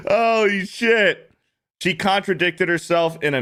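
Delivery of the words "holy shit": high, slow stunned holy shit; drawn out in disbelief; stunned gasp of delight; amazed. Real, not acted. Amazed at the contradiction.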